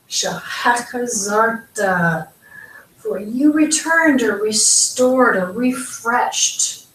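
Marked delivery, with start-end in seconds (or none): 0.1-2.3 slow SHEHEK ZARTA with a scraped "kh"; throaty kh inside shehek, zarta slowly after it; guttural ch. Shown as a demonstration. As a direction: draw out shehek zarta, rasping "she-KHEK". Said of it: "Here's that same sound as in the word chai".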